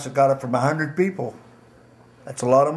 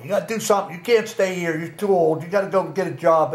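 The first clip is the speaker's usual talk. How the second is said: imitating a father on his case, louder; retold nagging, pitched up and pushed; 4 semitones higher, 5 dB louder than usual. Father nagging his jobless son at home, insistent retold scolding. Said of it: "My father was always on me".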